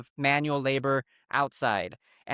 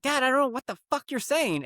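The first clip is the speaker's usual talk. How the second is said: voiced son; 9 semitones higher than usual. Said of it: "he's like".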